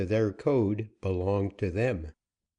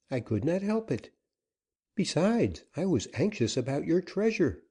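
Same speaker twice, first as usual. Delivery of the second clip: put-on higher, earnest young woman's plea; higher-voiced woman anxiously pleading; 6 semitones higher than usual. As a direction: soften him, she begs not to be scolded. Susana pleads with Joaquin.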